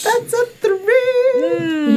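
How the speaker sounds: very high, hugely drawn-out lament; mock wail. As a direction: wail the bad roll slowly up high. Lamenting a low dice roll.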